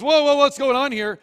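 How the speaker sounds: high, loud startled cry as the donkey. Acted. The donkey shying from the sword, a startled cry. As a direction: play the donkey spooked by the angel. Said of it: "Donkey goes".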